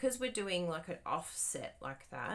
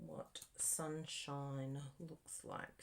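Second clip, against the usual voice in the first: reading it slowly; 3 semitones lower, 8 dB quieter, much slower than usual. Shown as a demonstration. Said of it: "we're gonna have to go with the".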